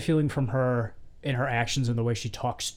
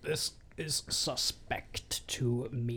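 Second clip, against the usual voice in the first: whispered suspicion; 9 dB quieter, much slower than usual. Real, not acted. Host whispers doubts about Lena while discussing the scene, slow hushed whisper.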